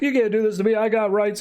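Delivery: high-pitched mock lisp. Punched villain protesting to her captors, high lisping voice. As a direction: protest thickly through a freshly punched mouth. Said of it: "like, a lisp because she got punched so hard".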